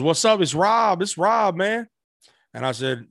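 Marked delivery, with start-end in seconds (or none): 0.0-1.9 high, upbeat voice climbing higher on each phrase; impression of a rapper. Rapper introducing himself on the phone, high and breezy. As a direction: sell it like a star casually introducing himself. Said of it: "And he goes".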